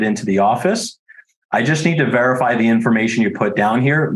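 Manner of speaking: steady, unhurried professional caller who stays neutral; neutral, unexcited cold-call delivery; calm phone voice. Shown as a demonstration. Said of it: "here's how I start every single call".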